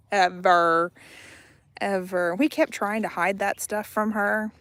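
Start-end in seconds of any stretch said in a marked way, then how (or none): 0.1-2.4 loud warning. Real, not acted.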